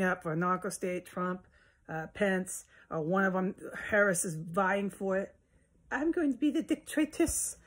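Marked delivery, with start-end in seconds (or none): 5.9-7.6 much higher, put-on sneering voice; mocking high voice. Mocking a politician he rails against, in a high put-on voice. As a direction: mimic a pompous politician grandly.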